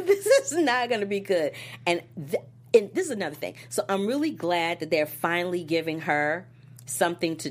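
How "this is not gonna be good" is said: higher, laughing repeat. Retold or imitated. Repeating her dread to the co-host, higher and laughing. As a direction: say it again through a laugh. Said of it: "I'm like".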